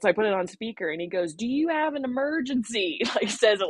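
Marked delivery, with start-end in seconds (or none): 1.3-3.0 high, over-enunciated condescension; mock a man patiently explaining; patronizing question, pitched up and spelled out; mansplain voice. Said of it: "total mansplain voice".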